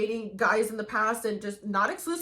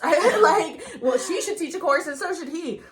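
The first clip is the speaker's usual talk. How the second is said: laughing; 6 semitones higher, 6 dB louder than usual. Real, not acted. Laughing at her own joke.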